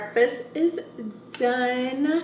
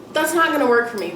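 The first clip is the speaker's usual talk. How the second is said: irritated; 3 dB louder, faster than usual. Real, not acted. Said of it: "I'm getting so irritated".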